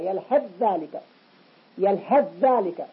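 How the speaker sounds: "يلهث ذلك" with th turned to dh; assimilated tha. Shown as a demonstration. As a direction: hold one doubled dh across "يلهث ذلك". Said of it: "الذال المتأخرة تسيطر على الثاء". (نطق "يلهث ذلك" بذال مشددة)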